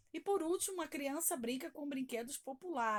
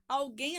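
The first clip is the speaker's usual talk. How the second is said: Alguém with a firm final guém; stress on last syllable; 5 dB louder than usual. Shown as a demonstration. Teacher showing the class the tonic syllable, Alguém stressed on guém. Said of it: "a sílaba tônica é guém".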